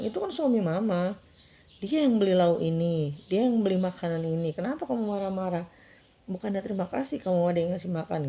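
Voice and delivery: emphatic, mildly heated mother's rebuke; retold angry scolding. Mother defending her husband to her child, retold angry scolding. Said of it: "Saya sempat naik darah, sempat emosi".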